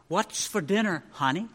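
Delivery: asked softly, barely above a breath; husband asking softly across the room; very quiet. A narrator's reading. Husband testing wife's hearing, very quiet question. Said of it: "very quietly he said from his chair".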